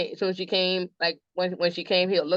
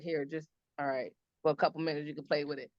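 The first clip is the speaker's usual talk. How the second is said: imitating her son; 4 semitones lower, 10 dB quieter than usual. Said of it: "sliding it back over to her, like".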